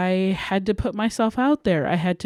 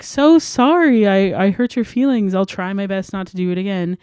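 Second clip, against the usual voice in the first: apologetic friend; 4 dB louder than usual. Retold or imitated. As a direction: gush an apology like the friend did.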